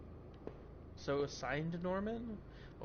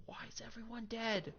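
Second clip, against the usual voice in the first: baffled disbelief; 7 semitones higher than usual. Real, not acted. Baffled by bodies.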